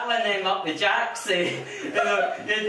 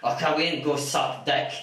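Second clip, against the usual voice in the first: mocking arguer; 8 semitones lower than usual. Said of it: "heard people saying".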